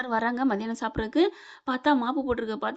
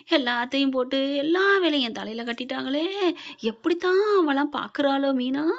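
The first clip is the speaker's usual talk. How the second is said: lamenting. Acted. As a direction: grumble and bewail your lot. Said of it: "புலம்புறது வைக்கிறது எல்லாம் இருக்க". (புலம்பலாக, இழுத்து இழுத்து)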